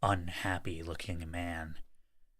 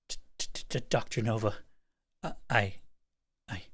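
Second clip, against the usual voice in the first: frightened stammer; 4 semitones higher than usual. Acted. Scientist stammers in fear.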